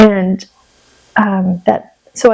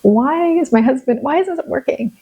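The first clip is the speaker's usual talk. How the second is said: frustrated retold plea, pitched up; aggrieved, higher-pitched appeal; mad at God; 5 semitones higher than usual. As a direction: question God with a touch of anger. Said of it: "I was just so mad".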